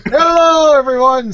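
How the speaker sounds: talking through a mouthful of snack; greeting while chewing food; chewing noisily. Real, not acted. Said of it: "Sorry, I'm eating my snack".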